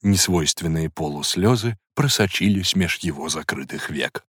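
ordinary delivery, nothing marked

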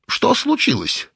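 high, slow bewildered asking; puzzled question. A narrator's reading. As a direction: ask it baffled and slow. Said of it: "недоумённо спросил большой". (недоумённо, медленно)

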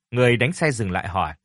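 ordinary delivery

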